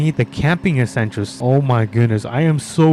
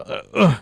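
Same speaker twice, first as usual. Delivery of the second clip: effort grunt. Pretend. Lifting heavy ramps into truck.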